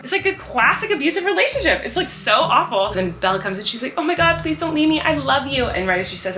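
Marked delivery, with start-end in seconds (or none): 4.0-5.6 mock pleading. Acts Belle pleading with dying Beast.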